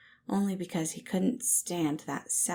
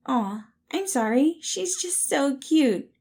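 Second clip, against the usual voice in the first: higher and louder, slow coo on cute; 9 semitones higher, 7 dB louder, slower than usual. Acted. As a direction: gush over the cat. Patton cooing over the cat.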